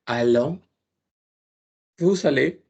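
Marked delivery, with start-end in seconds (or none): 0.0-0.6 "Allons" with nasal vowel, no n; nasal ending. Shown as a demonstration. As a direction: swallow the n of "Allons".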